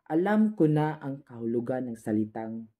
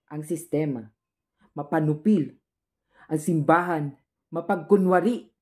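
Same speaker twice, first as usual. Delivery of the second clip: indignant denunciation; 2 semitones higher than usual. Acted. Denouncing the system and the church.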